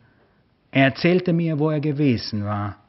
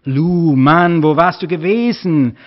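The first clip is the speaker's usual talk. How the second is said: louder, upset reproach; agitated and angry; 4 semitones higher, 7 dB louder, slower than usual. A narrator's reading. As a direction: let the worry spill out as anger. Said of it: "die Aufregung und Wut in meiner Stimme".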